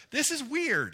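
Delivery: high, loud baffled exclamation; exclaimed bafflement. Retold or imitated. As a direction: blurt it out high and loud, as a confused reader. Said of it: "I'm the first one that's like".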